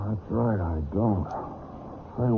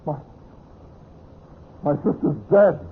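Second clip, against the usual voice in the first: high, halting shock; shocked horror; 8 semitones higher than usual. Acted. Brother telling friends his sister's dead, shocked. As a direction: let it burst out, then falter.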